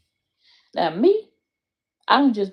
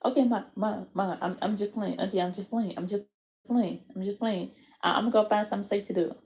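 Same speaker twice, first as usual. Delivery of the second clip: put-on meek child; 6 dB quieter than usual. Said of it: "That child should be like".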